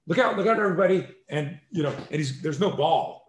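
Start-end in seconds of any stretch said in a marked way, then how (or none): 0.1-1.1 much higher, louder hammed-up crowd yell; mock warning shout. Instructor imitating a prankster in a crowd, hammed-up high shout. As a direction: play the clown in the crowd calling out. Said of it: "guy with a baseball glove in a crowd going".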